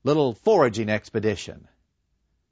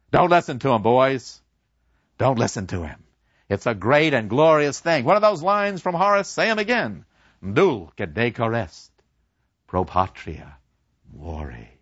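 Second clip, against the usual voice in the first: louder, orating teacher; rousing professor; 3 dB louder than usual. Acted. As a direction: preach glory to the class. Professor addresses class.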